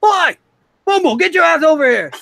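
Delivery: high, loud shout across a noisy bar; call from across the bar. Acted. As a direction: holler an order at someone far off. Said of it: "call off from the end of the bar".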